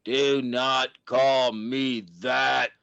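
a hint of the robot, cold and firm. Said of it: "I had the robot voice".

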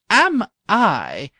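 king crying out that he loves golf; cried out. A narrator's reading. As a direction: burst out with joy. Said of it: "cried the king".

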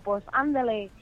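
mock Mexican. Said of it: "tengo que practicar mexicano".

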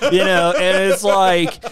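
hammed-up stoked surfer bro impression; John Bernthal. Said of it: "Dude, he sounds like, uh".

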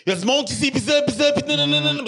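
squeaky, pushy imitation; high mocking voice. Mocking someone who demands opinions.

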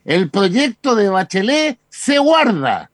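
slow, self-important announcement; mock a grand official statement; pompous voice. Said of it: "Con voz engolada".

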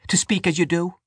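put-on high, stern old woman; pious scolding woman. A narrator's reading. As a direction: rebuke them piously. Dante scolding.

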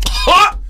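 high, loud single "Ha!"; explosive laugh. Retold or imitated. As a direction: burst out one sharp, high laugh. Imitates John's gum-spitting laugh.

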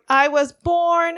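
I was born, slow, with BORN stressed; slow stressed line. Shown as a demonstration. Pointing out the line's rhythm, slow stressed reading. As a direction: stretch out "I was born" and lean on born. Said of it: "'cause you have".

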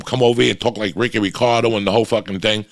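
usual speaking voice

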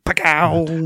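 comic discovery noise; triumphant sound effect. Retold or imitated. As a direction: pop it out like a sudden reveal. Imitates pulling the find out.

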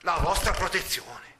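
scornful exclamation. Acted. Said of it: "esclamò dando indietro di due passi".

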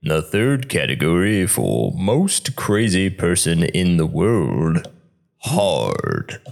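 slow, drawn-out announcer voice; movie-trailer narrator. Pretend. Slow game-show category announcement. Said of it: "We need a narrator to be like".

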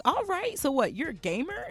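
high, impressed clerk voice; mock clerk voice. Mimicking the GameStop clerk, high and eager. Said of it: "He's like".

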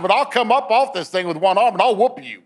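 re-enacted feisty warning; retold mad threat. Injured officer threatening from the table, mad. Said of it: "now I'm getting mad".

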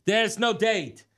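mock irritated insistence. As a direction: act out an irritated bouncer losing patience. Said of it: "he gets all irritated".

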